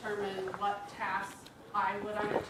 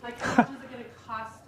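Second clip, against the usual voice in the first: louder words spilling out through a laugh; 2 semitones higher, 5 dB louder than usual. Real, not acted. Wife laughing as she tells about her husband, louder and giggly. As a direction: laugh while asking it.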